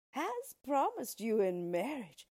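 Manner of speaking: slow, emphatic dwarf announcement; measured, weighty declaration; dwarf's announcement. A narrator's reading.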